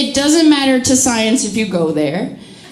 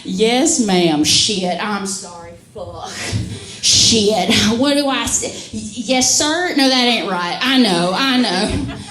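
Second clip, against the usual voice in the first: flustered southern relative; 3 semitones lower, slower than usual. Retold or imitated. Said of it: "someone goes like".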